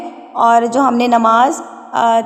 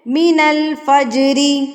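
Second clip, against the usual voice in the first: slow melodic recitation with a heavy kha; Quran recitation; slower than usual. Shown as a demonstration. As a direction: chant the verse slowly.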